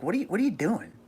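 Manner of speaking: imitating his wife. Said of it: "she's like".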